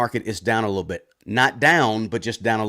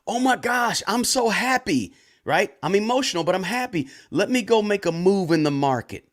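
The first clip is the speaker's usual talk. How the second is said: mock giddy investor; 7 semitones higher than usual. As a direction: play the overjoyed investor who rushes to buy. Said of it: "they get emotional with it".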